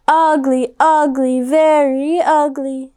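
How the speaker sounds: mock kids' chant; taunting kids. A narrator's reading. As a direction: sneer it like schoolyard bullies.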